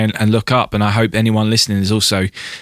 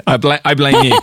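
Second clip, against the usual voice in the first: laughing; 3 semitones higher, 3 dB louder, faster than usual. Real, not acted. Laughing after naming mix-up.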